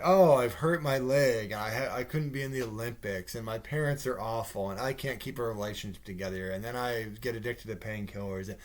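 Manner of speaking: mock woe-is-me rundown; mock dramatic. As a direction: imitate a self-pitying drama queen. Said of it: "like, she's so dramatic".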